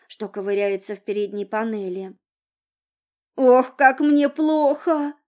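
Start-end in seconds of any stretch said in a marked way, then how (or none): 3.4-5.1 put-on high, slow drunken groan. A narrator's reading. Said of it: "простонала девица".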